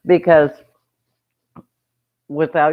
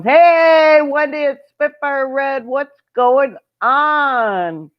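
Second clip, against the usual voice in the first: chirpy voice; 9 semitones higher, 3 dB louder, slower than usual. Retold or imitated. Reading a viewer comment aloud.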